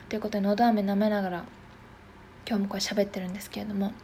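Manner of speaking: talking around a throat lozenge; sucking a throat lozenge. Real, not acted. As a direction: speak with a lozenge in your mouth.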